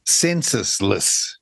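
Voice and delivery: "censusless" stretched out after a pause; slow and careful. Real, not acted. Host asking what the coined word means, slow and careful. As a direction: take the tricky word slowly, syllable by syllable. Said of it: "You gotta say that slowly".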